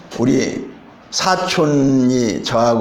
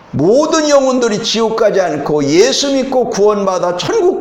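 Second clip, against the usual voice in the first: raised, fervent preaching voice; 3 semitones higher than usual. Acted. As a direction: preach it to the congregation with conviction. Preaching the message.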